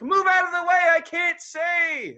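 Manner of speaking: loud, high yell to move aside; retold yell. Heckler yelling from the shadows at people in the way. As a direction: shout at the crowd to clear the way. Yelling at crowd blocking view.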